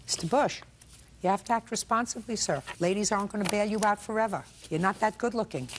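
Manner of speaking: brisk sarcastic scolding; sarcastic scolding tv judge. Real, not acted. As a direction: lecture him with dry sarcasm.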